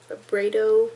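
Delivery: "Vibrato" said as vuh-BRAY-toe; alternative pronunciation. Shown as a demonstration. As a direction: try "Vibrato" with a long AY in the middle. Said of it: "not sure how to pronounce that".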